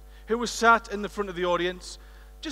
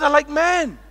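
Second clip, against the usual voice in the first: mock loud answer; 5 semitones higher, 8 dB louder, slower than usual. Audience woman answering loudly.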